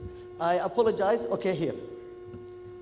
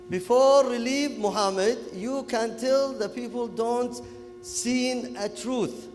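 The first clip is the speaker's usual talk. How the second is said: Kuwaiti English; 4 semitones higher, slower than usual. Retold or imitated. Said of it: "talking, uh, Kuwaiti English".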